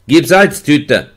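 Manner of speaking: langsam, laut gerufen; Ruf. A narrator's reading. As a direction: ruf durch die Kohlschütte. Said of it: "und er rief". (Wärter ruft vom Hof, laut und langsam)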